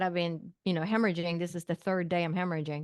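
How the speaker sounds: ordinary talk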